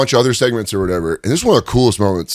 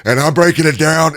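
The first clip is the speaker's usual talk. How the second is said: 1 lightly voiced Austin; 7 semitones higher, 4 dB louder than usual. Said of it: "he's like".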